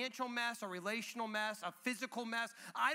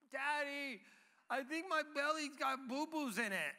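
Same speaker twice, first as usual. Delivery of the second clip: imitated toddler; 4 semitones higher than usual. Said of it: "my second child".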